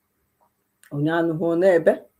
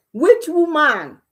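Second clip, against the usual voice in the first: indignant question; 7 semitones higher, 7 dB louder, slower than usual. Real, not acted.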